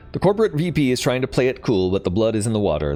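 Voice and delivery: animated read-aloud of game text; story narration. A narrator's reading. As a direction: narrate the briefing with lively, lifted phrasing. Reads game's story text aloud.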